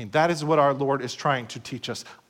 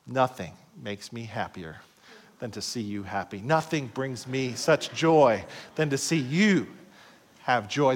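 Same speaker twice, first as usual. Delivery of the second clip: tender answer; 5 semitones lower, 3 dB quieter than usual. Retold or imitated. Husband tells his wife why he brought flowers, tenderly. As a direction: say it as if her joy is yours. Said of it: "Right answer".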